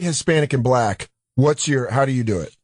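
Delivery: ordinary talk, nothing marked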